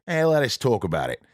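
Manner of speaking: imitated New Zealand crew member; light New Zealand accent, casual. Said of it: "his New Zealand accent".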